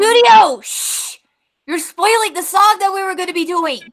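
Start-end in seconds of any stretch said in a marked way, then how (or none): 0.0-0.6 sudden loud high call; shout. Real, not acted. Calling out to interrupt the song. 0.6-1.2 voiceless hushing; shush. Real, not acted. Hushing the others.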